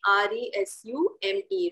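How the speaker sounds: slow, letter-by-letter spelling; measured dictation of each letter. Shown as a demonstration. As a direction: spell it aloud slowly, one letter at a time. Teacher spells out the word.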